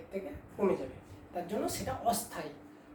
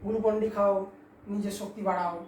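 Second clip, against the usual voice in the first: louder, punchy advert slogan; Glucon-D ad; 5 dB louder than usual. Retold or imitated. Teacher quoting a TV ad to students, mock advert voice. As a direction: sell it like a TV jingle line. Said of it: "অ্যাড তো শুনেছিস".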